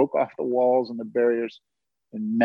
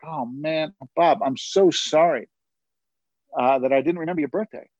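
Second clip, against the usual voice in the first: apologetic, a touch higher; guilty apology; 3 semitones higher than usual. Retold or imitated. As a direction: act out an embarrassed sorry. Acts out his guilty apology to brother.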